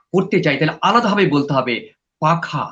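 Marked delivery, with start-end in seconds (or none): 2.2-2.7 পাখা spoken alone with a falling close; said apart. Shown as a demonstration. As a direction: isolate পাখা as its own phrase. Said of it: "আলাদা করেই প্রায় বলতে পারতে হবে".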